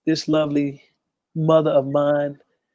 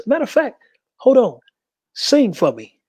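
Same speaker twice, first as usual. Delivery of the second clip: eager, higher pitched, sudden idea; excited; 6 semitones higher than usual. Retold or imitated. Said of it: "He says".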